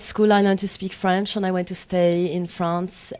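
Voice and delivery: French accent. Shown as a demonstration. Actress answers the interviewer as requested, in a French accent. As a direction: put on a French accent, stretching the words. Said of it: "answer the rest of the question in that accent".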